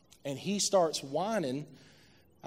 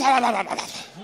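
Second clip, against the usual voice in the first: mimicked snore noise; 6 semitones higher, 7 dB louder than usual. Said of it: "You're snoring with".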